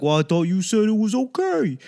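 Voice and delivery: high-pitched mock protest; protesting husband. Husband excusing himself to his wife, mock protest.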